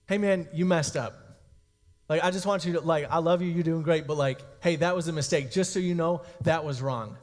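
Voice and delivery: gentle conviction. Acted. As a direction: point out a mistake like a supportive friend. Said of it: "this is what kind of conviction is".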